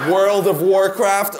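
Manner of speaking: put-on "World of Warcraft" in a light French-accented English, slow; mock French speaker saying "World of Warcraft". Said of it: "j'adore quand les Français essaient de prononcer". (accent français léger sur « World of Warcraft »)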